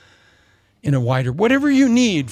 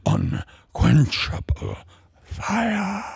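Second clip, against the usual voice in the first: fiery prophet; 5 semitones lower, slower than usual. Acted. Preacher voicing John the Baptist.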